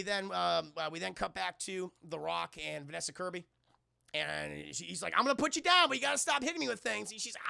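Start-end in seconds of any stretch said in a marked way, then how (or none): 5.2-7.1 raised, high-pitched mock scolding; exasperated warning. Agent warns woman to stop hitting him, raised exasperated voice. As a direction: warn with rising exasperation. The Rock scolding Vanessa Kirby's character.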